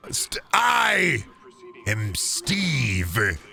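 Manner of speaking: lightly voiced movie line; hint of a dramatic reveal; Jack Black Steve. Quoting the trailer line, a lightly voiced reveal. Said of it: "he said it".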